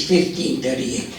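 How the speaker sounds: put-on old man with a Jewish accent. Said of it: "drop the Jewish accent".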